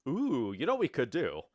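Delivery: talking through hiccups. Real, not acted. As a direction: hiccups breaking the words. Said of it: "I don't know why I have the hiccups".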